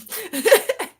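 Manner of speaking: sudden loud high cackle; loud high laugh. Real, not acted. Streamer laughing at her own joke, loud high cackle. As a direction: burst out cackling.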